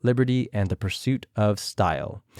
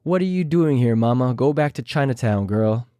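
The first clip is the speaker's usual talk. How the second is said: imitating Jessica Wilde. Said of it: "I tried my best to imitate them".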